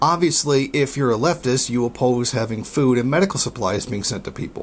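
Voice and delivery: ordinary talk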